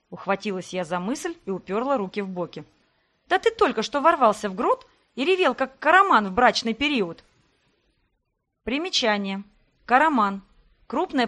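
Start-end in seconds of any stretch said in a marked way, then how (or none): 3.3-7.2 raised, indignant scolding voice. Acted. Heroine scolds Sebastian for roaring in the grotto. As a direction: tell him off for storming in.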